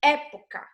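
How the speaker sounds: "Época" with weight on the first syllable; É-poca, set apart for the class; stressed syllable demo. Shown as a demonstration. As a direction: pronounce "Época" carefully, leaning on É. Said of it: "Qual é a mais forte".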